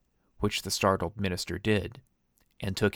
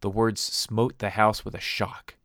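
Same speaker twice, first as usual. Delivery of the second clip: plain reading voice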